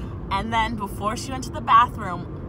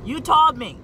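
insistent; 5 semitones higher, 4 dB louder than usual. Retold or imitated. Retold argument with coworker.

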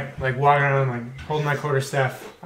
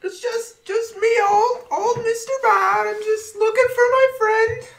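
put-on high, frail old beggar voice; old blind man voice. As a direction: play a lost, helpless old blind man. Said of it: "the whole blind guy thing".

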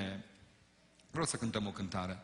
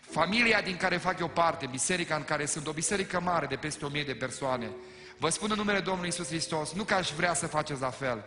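higher, louder, fervent pulpit delivery; preaching at full force; 5 semitones higher, 5 dB louder than usual. Acted. Pastor urging the congregation not to rush, full preaching. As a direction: drive it home like a revival preacher.

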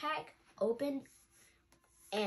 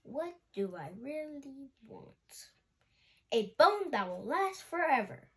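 rising to a loud, happy wish; eager wish; 3 semitones higher, 4 dB louder than usual. Acted. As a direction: build from musing to excitement. Pup dreams up wish.

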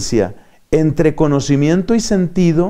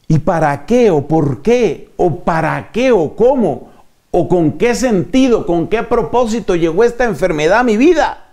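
questioning. Acted. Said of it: "Pero cuando yo digo".

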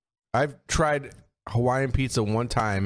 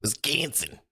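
Wisconsin drawn out like a mobster mangling the name; mocking a friend's odd Wisconsin, Italian mob style; mock mob boss accent; 4 semitones higher, 4 dB quieter, slower than usual. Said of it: "Italian mob boss trying to fucking say Wisconsin".

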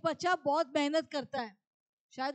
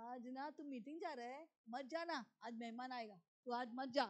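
tempting evil spirit; 4 dB quieter than usual. Acted. Monkey-like evil spirit talks a believer out of the meeting, coaxing then insistent. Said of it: "पूंछ को हिला के बोलते हैं".

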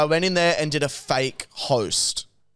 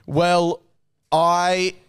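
slow down like a radio presenter; radio host voice; slower than usual. Pretend. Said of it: "you're gonna hear this voice a little more".

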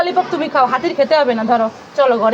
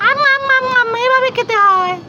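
showing how to eat; 8 semitones higher than usual. Shown as a demonstration. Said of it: "একটু দেখাও তো lollipop কিভাবে খেতে হয়".

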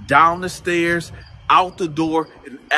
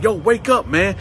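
imitated urging; 5 semitones higher than usual. Shaking cellmate awake.

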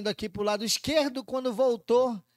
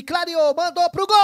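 rising, much louder and higher; excited build-up; 8 semitones higher, 8 dB louder than usual. Real, not acted. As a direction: build to the shot call. Shot on goal build-up.

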